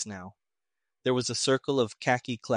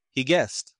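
"guessed" stressed, raised in pitch; correcting; 3 semitones higher, 4 dB louder than usual. A narrator's reading. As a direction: correct them by leaning on "guessed". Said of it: "the commanding officer corrected".

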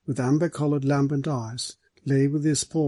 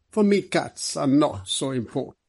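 slow figure voice, rising higher on the wife; apologetic Mister Swallow character; 4 semitones higher, slower than usual. Acted. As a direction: explain it away slowly, pleading the wife's fondness. Voices Swallow explaining himself.

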